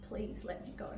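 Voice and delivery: a soft, breathy request; almost whisper it, pleading gently; voiceless plea to be let go. Retold or imitated. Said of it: "and he said".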